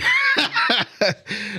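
high burst of laughter. Real, not acted.

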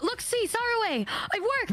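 high-pitched, gleeful; excited squeal. Pretend. Streamer claiming mating call worked, high and excited. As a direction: pitch way up, triumphant.

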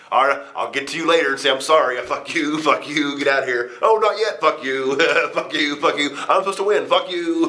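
laughing as you toss guys out; frenzied yelling. Retold or imitated. Retold throwing people out frenzy.

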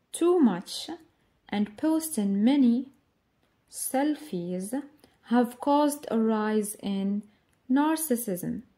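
reads the passage slowly, word by word; slow reading aloud. Shown as a demonstration. Teacher reading the exercise text to students, slow and clear. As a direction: read it out clearly for learners.

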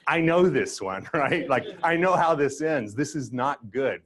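high-pitched, insistent mock alarm; knowing refusal. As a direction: cut the offer off, having been burned before. Acted refusal of second promotion offer.

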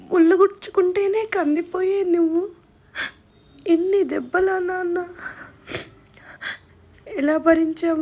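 tearful broken lament, catching on sobs; retold crying. Daughter weeping over her father's body, sobbing lament. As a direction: cry it out over his wounds. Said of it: "ఏడ్చాను".

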